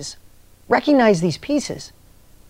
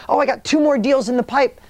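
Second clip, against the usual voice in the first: higher, lightly eager boast; imitating eagerness; 6 semitones higher than usual. Tom tells the coach his next deals, mildly eager. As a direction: brag a little, half-hearted fire. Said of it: "And he's on fire".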